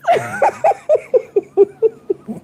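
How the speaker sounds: big laugh. Real, not acted. Laughing at own story.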